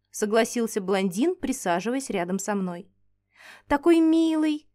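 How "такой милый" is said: a touch of delighted gushing. Acted. Heroine admires the tiny dragon, delighted gushing. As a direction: coo over the cute little thing. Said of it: "восхитилась".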